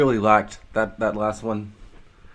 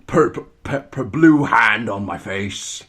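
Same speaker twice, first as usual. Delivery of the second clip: mock Scottish pirate; 5 dB louder, slower than usual. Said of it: "That sounds like a pirate".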